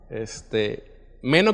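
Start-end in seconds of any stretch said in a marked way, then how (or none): 1.2-1.5 "meno" stressed on the first syllable, the E. Shown as a demonstration. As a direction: put the accent on the E in "meno". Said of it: "con acento en la E".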